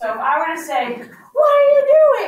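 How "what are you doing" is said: very high, loud, almost yelling. Showing a class how a sentence with an exclamation point sounds: almost yelling. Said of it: "I'm almost yelling at".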